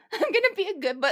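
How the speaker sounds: put-on toddler voice.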